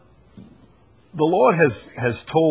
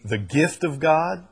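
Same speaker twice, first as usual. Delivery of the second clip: "gift of God" raised as a tentative suggestion; "gift of God" a little higher, questioning; stress on GIFT OF GOD; 4 semitones higher than usual. Shown as a demonstration. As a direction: lift "gift of God" as a possible emphasis. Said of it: "You would think that the emphasis here".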